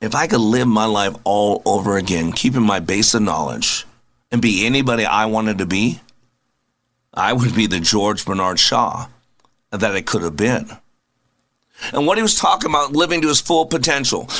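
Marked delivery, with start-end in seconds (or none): 0.0-10.7 quoting George Bernard Shaw. Retold or imitated. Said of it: "he said".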